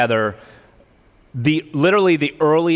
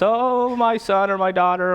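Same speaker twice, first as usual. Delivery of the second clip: mock weeping; 5 semitones higher than usual. Parent watching their child get married, mock weeping. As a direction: wail it fondly, like a tearful wedding parent. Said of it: "everybody's crying because".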